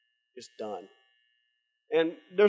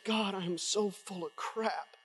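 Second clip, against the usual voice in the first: retold broken prayer; 2 semitones higher, 10 dB quieter, slower than usual. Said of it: "and I'm just sobbing".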